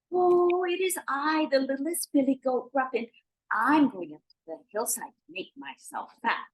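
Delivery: high-pitched little goat voice; littlest billy goat. Acted. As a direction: answer the troll in a small high voice. Littlest goat answers troll in story.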